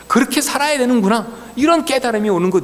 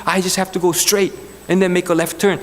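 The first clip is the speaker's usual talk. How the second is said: very slow, deliberate English, each word spelled out; slow careful repeat; 2 semitones lower, much slower than usual. Retold or imitated. Driver repeating directions to the officer, very slow. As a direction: echo his directions back slowly and carefully. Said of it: "똑같이 반복해".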